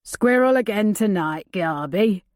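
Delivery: lightly voiced rough outlaw; a hint of a gruff camp thief; gravelly demanding voice. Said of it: "a gravelly voice demanded".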